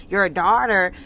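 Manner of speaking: "your daughter" said with sarcastic air quotes, set apart; mock the phrase "your daughter" as if in quotation marks; air-quoted "your daughter". Lexi throwing the word back at her mother, sarcastic air quotes. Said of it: "put up her two fingers like two hyphens".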